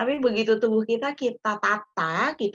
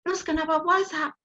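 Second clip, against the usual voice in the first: higher-pitched follow-up question; 8 semitones higher than usual. Retold or imitated. Imagined questioner pressing Dian about fasting, questioning. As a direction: press with a quoted "why", pitched up.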